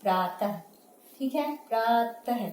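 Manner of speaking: प्रातः with a breathy ह after the vowel; correct visarga. Shown as a demonstration. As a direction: model प्रातः for students. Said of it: "प्राय नहीं".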